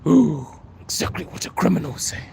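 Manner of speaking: hammed-up shock at being found out; mock scandalised. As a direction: echo the accusation as if caught out. Repeats accusation in mock shock.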